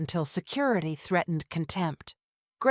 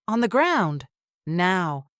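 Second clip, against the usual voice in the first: police order; 4 dB louder than usual. Acted.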